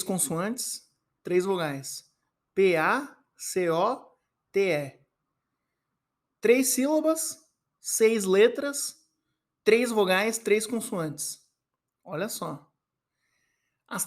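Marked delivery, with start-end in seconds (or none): 2.5-5.0 soletrando devagar. Shown as a demonstration. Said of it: "soletrando a palavra". 6.4-11.4 enumerando devagar. Shown as a demonstration. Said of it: "contando as letras da palavra".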